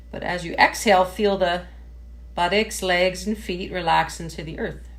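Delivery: measured meditation-teacher voice with pauses; guided meditation. Real, not acted. Yoga teacher settling a class into sitting tall, guided meditation. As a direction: guide them gently through posture, phrase by phrase.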